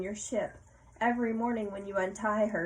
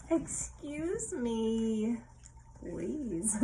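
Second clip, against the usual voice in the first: polite reply; much slower than usual. Shown as a demonstration. Modeling the polite answer.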